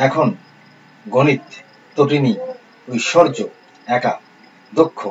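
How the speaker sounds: measured dictation, one word at a time; teacher dictating a list of words; word-list reading. Acted. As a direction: read out each word separately, pausing after each.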